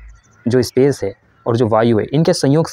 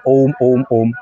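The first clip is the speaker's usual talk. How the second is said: quick clipped wrong way of saying om; hasty om; much slower than usual. Shown as a demonstration. Teacher shows students the wrong hurried om, rushed. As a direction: toss off om hurriedly, carelessly. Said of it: "ऐसे इसको नहीं बोलते".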